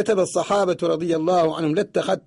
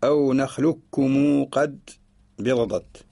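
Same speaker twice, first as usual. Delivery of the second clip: slow chanted verse; verse recitation; much slower than usual. Shown as a demonstration. Teacher chanting the verse line, slow. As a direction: draw it out slowly. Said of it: "ثم قال".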